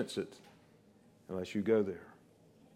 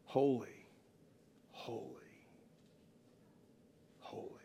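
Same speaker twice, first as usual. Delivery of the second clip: fading into an awed whisper; hushed reverence; 16 dB quieter than usual. Real, not acted. Preacher echoes the heavenly worship, hushed reverence. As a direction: let each word sink further into a whisper.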